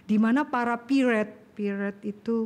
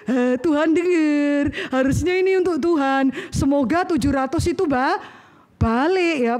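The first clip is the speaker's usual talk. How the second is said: mock whining prayer; 2 semitones higher, 4 dB louder than usual. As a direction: whine at God to get the money back. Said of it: "Mungkin kau pikir".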